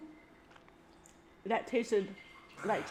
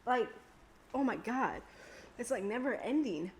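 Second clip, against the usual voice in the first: talking with a burning tongue; words pushed past a burning mouth. Real, not acted. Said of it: "my tongue is on fire".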